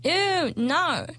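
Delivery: high, loud grossed-out ew; disgusted. Real, not acted. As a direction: recoil in disgust. Reacting to baby-voice pet name.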